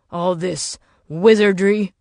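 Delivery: slow, mocking "wizardry"; a skeptical soldier sneering at gadgets; scoffing. Jenkins scoffs at tech.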